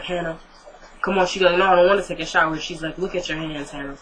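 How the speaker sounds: softly comforting a grieving friend; hushed, gentle reassurance; soft soothing voice. Retold or imitated. Catherine coaxing Hannah gently.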